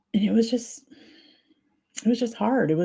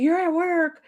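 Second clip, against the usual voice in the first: imitating cousin; 10 semitones higher than usual. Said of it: "She was like".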